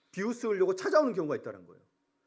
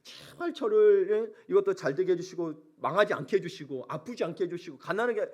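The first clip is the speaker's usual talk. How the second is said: imitated prayer; 3 semitones higher than usual. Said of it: "어떤 분들이 그런 기도도 해요".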